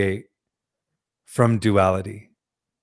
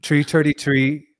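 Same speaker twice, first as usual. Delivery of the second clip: halting, exaggerated Irish accent attempt; bad Irish accent; 3 semitones higher than usual. Shown as a demonstration. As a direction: have a clumsy go at an Irish accent. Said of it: "My Irish accent".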